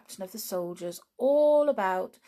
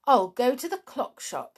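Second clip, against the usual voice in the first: cheerfully; 5 semitones higher, 5 dB louder than usual. Acted. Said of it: "said Jolly cheerfully".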